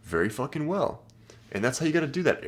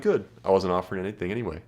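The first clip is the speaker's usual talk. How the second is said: quick playful put-down, said fast; teasing brush-off; faster than usual. Shown as a demonstration. Guy teasing a girl who declined, fast and playful. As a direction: rattle it off like a joke. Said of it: "And that's hilarious".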